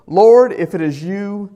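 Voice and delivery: loud, slow plea across the water; calling out. Acted. Peter calls out to Jesus on the water, a loud, slow plea. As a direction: call out to the Lord, drawn out and pleading.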